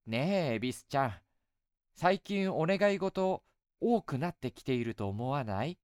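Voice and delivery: put-on light, coaxing young woman; goddess voice. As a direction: sweetly tease an old friend. Goddess Benzaiten speaks.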